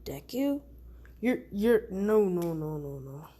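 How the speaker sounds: reeling from shock, voice dropping away; shocked disbelief. Acted.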